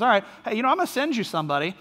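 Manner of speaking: mock-helpful offer, lightly sarcastic; breezy, tongue-in-cheek reassurance. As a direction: imitate Paul needling them with feigned helpfulness. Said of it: "he's very sarcastic in the first five verses".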